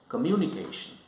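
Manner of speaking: "communication" with the stress moved early to "mu". Shown as a demonstration. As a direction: hit "mu" in "communication", letting the rest fall. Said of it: "the stress is on the second syllable".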